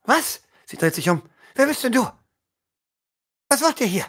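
hoch, herablassend; hochmütige Lady. Acted. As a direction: frag von oben herab. Lady fährt Fremde an. (Lady fährt die Fremden hochmütig an)

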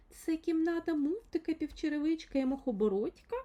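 a gentle woman's voice through the phone; soft woman's voice. A narrator's reading. Stranger calls the room, in a lightly voiced soft woman's voice. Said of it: "пролунав м'який жіночий голос".

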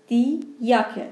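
slow یاکه starting with a y glide. Shown as a demonstration. Teacher giving the example for Jot, یاکه with y. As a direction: say یاکه slowly, German j like Persian ye.

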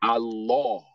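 Allah said "al-LAW", with a rounded second vowel; heavy Lam. Shown as a demonstration. Teacher modelling Allah after the rule, heavy Lam. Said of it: "going to be pronounced Law".

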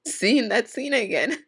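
slow, tearful, breaking up; crying. Real, not acted. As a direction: talk through fresh tears. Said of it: "Now I'm crying again".

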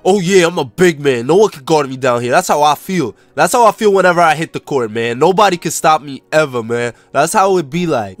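lightly deepened cocky player voice; big-man character, boastful. Acted. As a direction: brag as the unstoppable big man.

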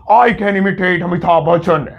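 a half-hearted try at Amitabh's deep voice; bad Amitabh impression. Teacher jokingly imitating Amitabh Bachchan for students, a weak impression. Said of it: "मैं कितना गंदा copy कर रहा हूँ".

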